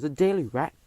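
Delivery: a scandalized squeaking question; shocked squeak. Acted. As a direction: recoil at the name. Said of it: "I squeaked".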